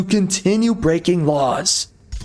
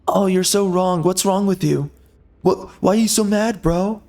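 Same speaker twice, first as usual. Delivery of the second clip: higher, sing-song taunt of a scold; mocking whiny voice; 4 semitones higher than usual. Mimicking a scolding critic, higher and taunting. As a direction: sneer at them as a nagging scold.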